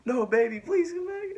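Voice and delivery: high, loud mock plea through laughter; imitated squealing, laugh-choked begging. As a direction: beg while helplessly cracking up. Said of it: "laughing 'cause I have no self-control".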